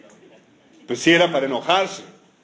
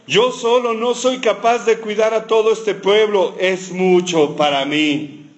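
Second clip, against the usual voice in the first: overwhelmed complaint; 5 semitones higher, slower than usual. Retold or imitated. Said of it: "Como cualquier mamá quejándose".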